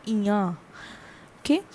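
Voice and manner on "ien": "Ian" said as a nasal ya; nasal French ending. Shown as a demonstration. Teacher showing the masculine ending, "Ian" as nasal ya. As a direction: say "Ian" with no final n sounded. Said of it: "And the pronunciation is".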